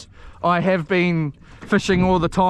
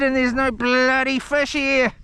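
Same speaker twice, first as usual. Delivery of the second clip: put-on grumpy voice; 5 semitones higher than usual. Continues put-on rant voice.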